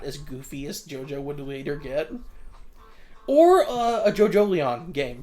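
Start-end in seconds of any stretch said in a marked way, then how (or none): 3.3-5.2 excited. Real, not acted. Excited idea.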